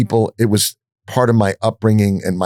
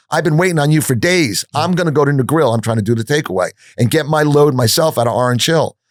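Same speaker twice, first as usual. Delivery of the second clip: retold yelling; 4 semitones higher than usual. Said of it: "I start yelling at him".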